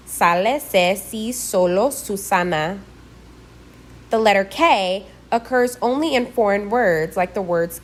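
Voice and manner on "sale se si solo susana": Sale, se, si, solo, Susana with S as in sun; Spanish S. Shown as a demonstration. Teacher modelling the letter S, S as in sun. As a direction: keep every S in solo and Susana unvoiced, never Z. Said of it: "like S as in sun".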